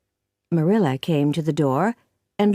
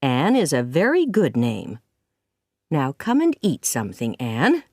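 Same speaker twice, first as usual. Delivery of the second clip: smiling gently; 3 semitones lower than usual. Acted. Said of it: "but she smiled".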